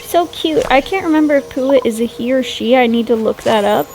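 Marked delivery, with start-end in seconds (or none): 0.0-0.6 cooing. Real, not acted. Sees cute pig in game.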